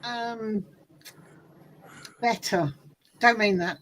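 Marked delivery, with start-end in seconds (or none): 0.0-2.7 slow, high, emphatic boast; mock snobbery. Accent snob claiming superiority, slow mock-haughty emphasis. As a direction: lay it on thick, louder and stretched.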